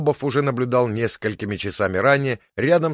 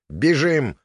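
command; 5 semitones higher, 4 dB louder than usual. A narrator's reading. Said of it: "скомандовала".

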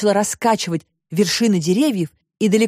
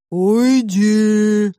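loud, stretched monster moan; dull drawn-out monster; 3 semitones higher, 4 dB louder than usual. A narrator's reading. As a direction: drag it out dully like a dim beast. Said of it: "тупо протянуло в ответ чудовище". (тупо протянутое «уйди» чудовища)

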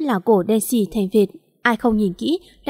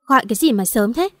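mildly irritated, grumbling question; a touch of attitude on answering. Acted. Mother answering an early morning phone call, with attitude. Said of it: "với cái giọng thái độ".

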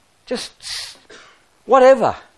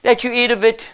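a hint of a soothing pushover, softer; mock soft excuse; 2 semitones lower than usual. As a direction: play the weak leader who makes excuses. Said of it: "He didn't say".

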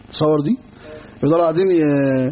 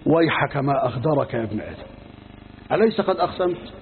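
forgiving gentle rebuke; 3 semitones lower, 4 dB quieter than usual. Acted. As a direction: chide him gently, without anger. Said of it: "قال الله عز وجل وهو يعذره". (عتاب رقيق هادئ)

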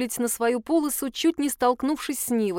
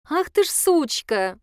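slow, higher, louder surprised exclaim; delighted surprise; 6 semitones higher, 4 dB louder, slower than usual. Acted. Dasha realises Polina remembered her saying, delighted surprise. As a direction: catch the trick with admiring glee.

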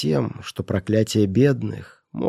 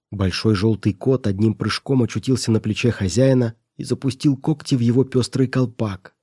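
ordinary delivery

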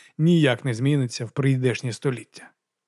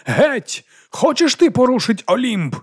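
high, louder theatrical proclamation; stage declamation; 10 semitones higher, 4 dB louder, slower than usual. A narrator's reading. Actor on stage booming a dramatic line, high and loud. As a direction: declaim it grandly to the audience.

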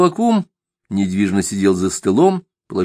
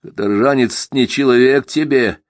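Simagin, provoking; 4 semitones higher than usual. Acted. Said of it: "запоздало спросил Симагин".

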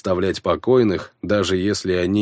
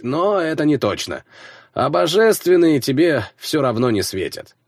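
higher, half-awake know-it-all friend; sleepy friend voice; 8 semitones higher, 3 dB louder than usual. A narrator's reading. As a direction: explain like a drowsy gamer. Slavka explains in his voice.

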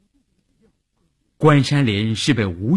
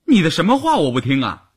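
quick, higher-pitched baffled question; playing dumb; 6 semitones higher, faster than usual. A narrator's reading. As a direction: ask back as if utterly clueless. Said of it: "少月傻不拉几地瞪着眼睛问". (装傻充愣地反问)

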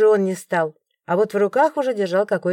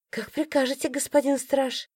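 mock obedience; 5 semitones higher, 6 dB quieter than usual. Mock curtsy to guard.

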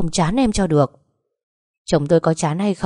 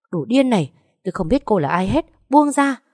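a slapped rival shrieking to be released; shrieking to be let go; 5 semitones higher than usual. Acted. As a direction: scream at her to let go.

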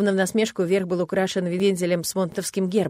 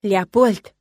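louder indignant name call; 7 dB louder than usual. A narrator's reading. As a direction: scold the cat by name. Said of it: "возмутилась я". (возмущённо)

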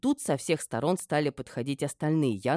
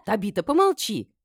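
louder, higher sharp command; barked rebuke; 7 semitones higher, 6 dB louder than usual. A narrator's reading. Mistress silences her chattering friend, barking. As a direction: bark to cut her off. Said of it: "рявкнула я на подругу".

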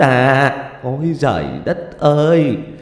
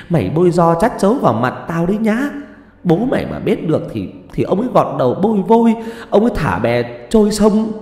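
high-pitched angry tirade, building into a wail; furious hissed scolding; 6 semitones higher than usual. A narrator's reading. Mother pointing at her daughter's face, furious scolding. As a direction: scold and threaten, then lament bitterly. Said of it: "chỉ thẳng vào mặt Khuê mà rít lên".

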